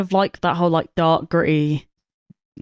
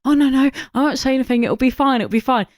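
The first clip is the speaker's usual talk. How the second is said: mock reassurance; 6 semitones higher than usual. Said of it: "he's like".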